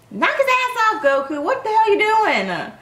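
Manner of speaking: high, exasperated call-out; urgent heckling. Real, not acted. Fan yelling at Goku to attack, urgent heckling. Calling out to fighter on screen.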